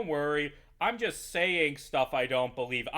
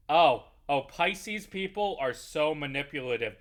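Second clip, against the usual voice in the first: mock contestant; 5 dB louder than usual. Mocking a TV contestant.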